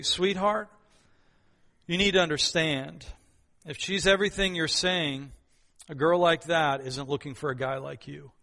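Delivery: soft, gentle mother's warning; tender but truthful. Retold or imitated. Mother tells her son a hard truth, softly and tenderly. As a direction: break it to him gently, with love. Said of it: "the mom just said very tenderly, but also very truthfully".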